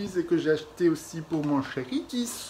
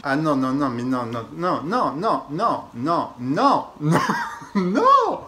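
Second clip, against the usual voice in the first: laughing exasperated no; 2 semitones lower, 4 dB louder, slower than usual. Real, not acted. Exasperated at a bad cream.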